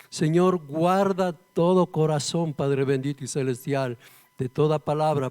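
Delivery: earnest, steady prayer voice; spoken prayer. Real, not acted. Preacher asks God to prepare hearts for the teaching, praying. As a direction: pray aloud, addressing God phrase by phrase.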